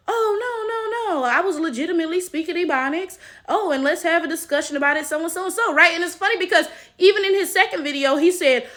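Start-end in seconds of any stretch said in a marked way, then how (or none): 0.1-5.7 high-pitched mock denial, then quick backpedaling; mock passive-aggressive. Commentator imitating the man's denial of mockery, mock passive-aggressive. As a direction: imitate someone dodging blame, starting high and speeding up. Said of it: "he continues to be passive aggressive".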